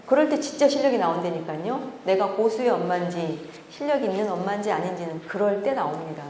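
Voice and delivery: ordinary talk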